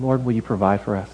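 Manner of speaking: soft, low, plain request; simple prayer. Acted. Ordinary people asking the Lord to provide, quiet prayer. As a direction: ask quietly and humbly. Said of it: "like real ordinary people, and asking".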